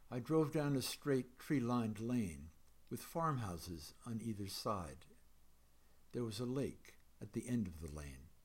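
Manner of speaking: measured, even poetry reading voice. A narrator's reading. Poet reading a dreamlike poem to an audience, measured reading. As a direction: read the poem to the room, letting lines land.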